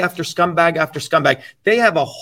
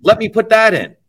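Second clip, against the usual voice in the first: mock copycat; 3 semitones higher, 3 dB louder than usual. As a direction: play someone excitedly pinching slogans, building as you go. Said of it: "who mimic my words".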